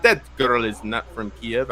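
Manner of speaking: imitating a man with a Russian accent; lightly put-on Russian accent; mock Russian accent. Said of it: "why he has a Russian accent".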